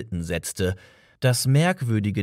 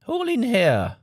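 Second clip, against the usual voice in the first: firm command; 12 semitones higher than usual. A narrator's reading. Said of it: "einen sehr bestimmten Ton".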